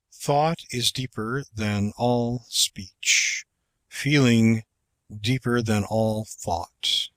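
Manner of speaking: slow, measured recitation; poem reading. Shown as a demonstration. Reading a poem to a class, slow and measured. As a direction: weigh each line of the verse.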